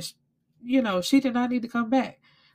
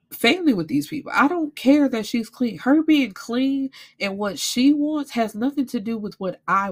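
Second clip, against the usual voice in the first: louder, higher, fired-up rant at her aunt; reliving telling off Aunt Connie, raised voice; retold angry telling-off; 5 semitones higher, 4 dB louder than usual. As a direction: lay down the law, heated. Retelling confrontation with aunt.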